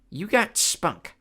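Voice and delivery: very slow, high monster voice; slow amused Cyclops. Acted. Polyphemus amused by Clarice, slow monster voice. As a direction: chuckle it out like a giant.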